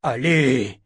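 loud, drawn-out urging; impatient shout. A narrator's reading. Chase urging the hesitant woman on, shouting. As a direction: shout to push her into action. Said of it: "cria Chase".

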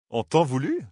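rising incredulous echo. Acted. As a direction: repeat it in disbelief. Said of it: "répéta Matt, incrédule".

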